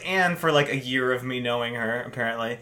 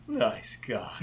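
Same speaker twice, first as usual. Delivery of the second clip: Kronk voice; 2 semitones lower, 9 dB quieter than usual. Pretend. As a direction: mumble it as Kronk without moving lips. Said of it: "in Kronk's voice".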